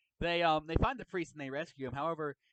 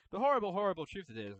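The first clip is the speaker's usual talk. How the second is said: dramatic, ominous voice on horrible, horrible truth; 4 semitones higher, 4 dB louder, faster than usual. Pretend. Dramatic retake of the phrase.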